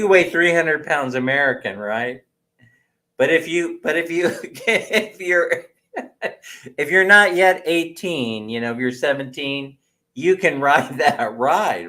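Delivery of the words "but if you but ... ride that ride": laughing. Real, not acted.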